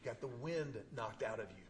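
a hint of a gentle father, hushed; calm dad voice. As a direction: lean over a winded kid and calm him down. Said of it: "and he goes".

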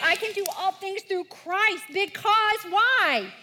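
rally toward the answer; leading recitation. Shown as a demonstration. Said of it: "So read them with me".

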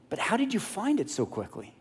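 high, soft, doubtful question; not sold. Acted. Blind father questioning his son's quick return, sceptical. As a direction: pitch lifts in quiet suspicion. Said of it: "still not sold".

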